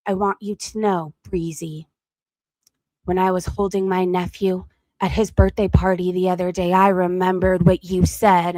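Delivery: low, measured imitation of a grave confession; mock serious. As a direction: imitate someone getting all serious. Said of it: "she gets all serious".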